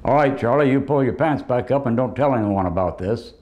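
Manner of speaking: a lightly voiced creepy schoolteacher, hushed and coaxing; creepy teacher impression. Roast comic mimics the fifth grade teacher hushing a student. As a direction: coax the kid like a shady teacher. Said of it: "His impression of his fifth grade school teacher".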